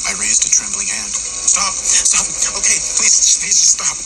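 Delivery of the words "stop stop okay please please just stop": much higher, pleading panic; desperate begging. A narrator's reading. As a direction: beg for the baby's life. Begging Tommy to spare baby.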